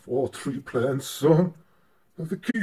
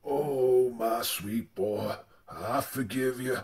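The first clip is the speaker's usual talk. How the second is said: lower, softer, slow tender father; soft fatherly; 4 semitones lower, 5 dB quieter, slower than usual. Acted. A father forgiving his son, low and soft. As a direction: forgive him gently, like an old pa.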